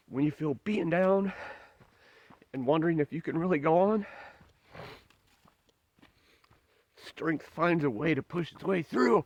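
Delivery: pushing through real emotion, words slowing near the end; choked-up, hopeful hiker pep talk; emotional. Real, not acted. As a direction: voice lifted and tight, near tears. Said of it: "Sorry, I'm being emotional".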